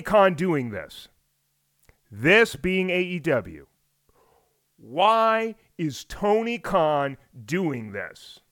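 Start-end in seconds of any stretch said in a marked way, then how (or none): 4.8-8.4 very slow, weighty repeat of the question; slow dramatic question. Shown as a demonstration. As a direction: let each word hang, slowly. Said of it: "Did you feel that when I asked the question?".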